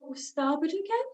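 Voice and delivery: weary "starboard again?" complaint; quietly fed-up sigh of a question; exasperated groan. Retold or imitated. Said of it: "everyone will stand ... room going".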